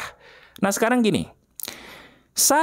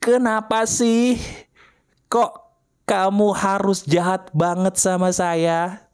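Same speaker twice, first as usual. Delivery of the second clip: demo scream line; 4 semitones higher, slower than usual. Shown as a demonstration.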